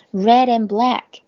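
red and run together as re-dand; linked red and. Shown as a demonstration. Teacher showing students how to link red and. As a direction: carry the d of red into and. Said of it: "red和and可以连读".

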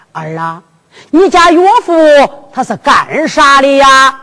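storyteller's hint of an old father; old father questioning. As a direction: stretch out the question like a stage elder. Old father questions his son.

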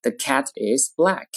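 slow "The cat is black", "cat" and "black" held; lengthened sentence stress. Shown as a demonstration. Teacher demonstrating sentence stress, slowly, "cat" and "black" lengthened. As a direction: stretch "cat" and "black", keep "The" short. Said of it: "句子重音在哪里".

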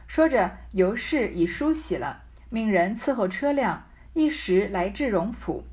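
measured reading of a classic novel, phrase by phrase; story narration. Acted. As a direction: read the old text aloud with deliberate pauses. Reads the novel's text aloud.

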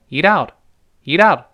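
"eat out" linked, vowel opening then closing; full out diphthong. Shown as a demonstration. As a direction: glide "out" from a to u in "eat out". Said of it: "有一个咧嘴再收回来这个动作".

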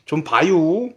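lightly voiced Chungcheong dialect; a hint of Chungcheong dialect. Shown as a demonstration. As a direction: ease into a mild Chungcheong dialect. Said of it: "충청도 사투리로는".

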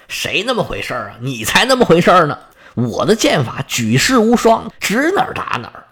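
quick, heated comeback from the goddess; indignant retort. Acted. Artemis, stung by Apollo's jab, retorts angrily. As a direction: snap back, stung by the insult. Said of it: "一听就生气了".

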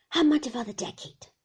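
loud, whining demand; loud old man's singsong; old man's cry. A narrator's reading. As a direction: cry it out as the fierce old shopkeeper. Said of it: "cried the old man".

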